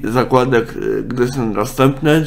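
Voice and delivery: usual speaking voice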